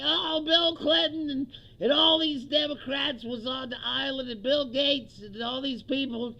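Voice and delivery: rattles off names with relish; mock Maxwell testimony. Comic imitating Maxwell naming Democrats.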